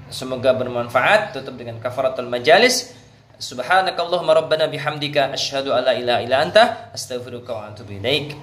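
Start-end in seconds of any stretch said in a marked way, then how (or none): 3.4-8.3 closing prayer. Acted.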